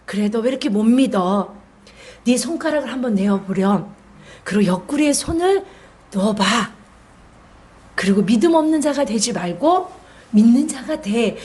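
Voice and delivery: lightly voiced tender Jesus; gentle coaxing. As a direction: coax him kindly to reach out. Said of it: "저는 제가 이렇게 말하고 싶어요. 뉘앙스가".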